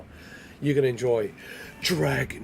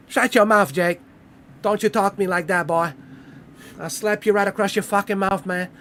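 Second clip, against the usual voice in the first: loud, higher hammed-up threat; mock tough guy threat; 5 semitones higher, 4 dB louder than usual. Streamer quoting a Roadhouse bruiser, loud and high. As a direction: snarl it like a movie bruiser.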